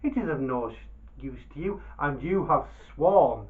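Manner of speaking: loud, pleading merchant; wheedling merchant. Acted. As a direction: coax the Dervish into giving back. Baba Abdallah pleads with Dervish.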